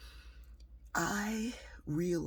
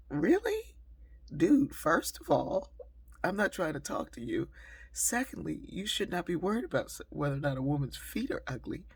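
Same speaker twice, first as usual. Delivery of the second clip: higher and louder, incredulous put-down; exasperated retort; 4 semitones higher, 5 dB louder than usual. Retold or imitated. The speaker imagines telling off the man, exasperated retort. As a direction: set the guy straight, fed up.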